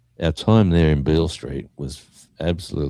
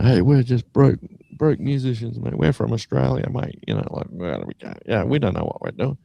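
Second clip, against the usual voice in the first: high-pitched imitation of a mate protesting; mock crying protest; 7 semitones higher than usual. Bandmate pleading with gang of young blokes, mock crying protest. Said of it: "crying or yelling and saying".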